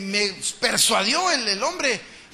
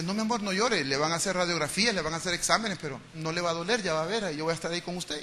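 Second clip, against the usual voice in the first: softer calm comfort; soothing a crying child; 3 semitones lower, 4 dB quieter than usual. Retold or imitated. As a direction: gently reassure your hurt daughter. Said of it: "yo le decía".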